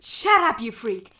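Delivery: angry snap. Acted. Villain snapping at Napstablook.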